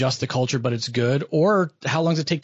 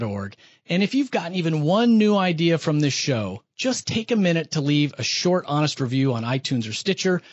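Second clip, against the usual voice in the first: polished, upbeat host sign-off; podcast outro read. Real, not acted. Host signing off to listeners after the interview, polished outro read. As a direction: deliver a scripted show close with punched key words.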